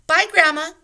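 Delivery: high, loud, playful laughing bye; laughing goodbye. A narrator's reading. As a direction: tease her with a laugh. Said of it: "Annie said with a laugh".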